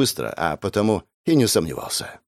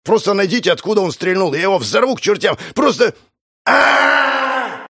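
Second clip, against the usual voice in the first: high, loud barking of orders ending in a cry; panicked yelling orders; 10 semitones higher, 3 dB louder than usual. Acted. Gang leader yells orders at his men, then screams when struck. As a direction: yell at them, then cry out as you're hit.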